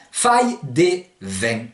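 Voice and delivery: FAILLE DES VENTS said slowly, vents as "vèn"; slow, word-by-word faille des vents, ending "vèn"; Provençal pronunciation. Shown as a demonstration. Teacher translating "il fait du vent", slow Provençal pronunciation. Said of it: "ça va donner".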